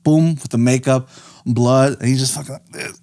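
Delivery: winded, fast and breathy; out of breath. Real, not acted. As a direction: talk while gasping for air. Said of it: "You are out of breath".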